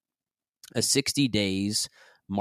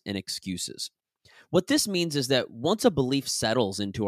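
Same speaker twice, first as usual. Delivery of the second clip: measured, articulated nonfiction narration; audiobook read; 2 semitones higher than usual. Acted. Author recording a self-help chapter for listeners, measured audiobook read. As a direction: read the chapter out with deliberate emphasis. Reads own book aloud as audiobook.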